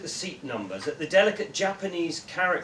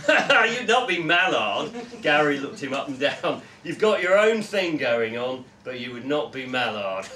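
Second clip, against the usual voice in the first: loud, pushy mate voice; hearty bloke, needling his friend; brash Gary voice; 7 dB louder than usual. Acted. Gary dismisses Joe.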